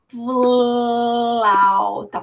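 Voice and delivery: FLAUTA with the L held very long; exaggerated L. Shown as a demonstration. Teacher showing the hidden L to pupils, heavily stretched. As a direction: drag out the L in flauta before releasing the vowel. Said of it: "o L dá pra perceber bastante".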